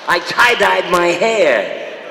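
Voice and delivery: loud, high-pitched Stooge impression; Larry Fine. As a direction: do a whole bit in a loud, high comic character voice. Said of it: "like Larry Fine at Woodstock".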